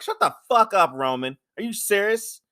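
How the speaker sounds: high, loud yell at Roman; high-pitched shouted rant; mock angry yell. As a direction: blow up at him in a high voice. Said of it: "I'm like".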